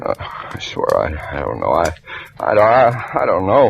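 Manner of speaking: frightened stammer. Acted. Beaten Harry denying to Marla, stammering in fear. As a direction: trip over every I, scared stiff.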